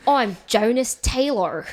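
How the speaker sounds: slow, mock American action hero; hammed-up American tough guy; American accent. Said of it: "I was trying to copy an American".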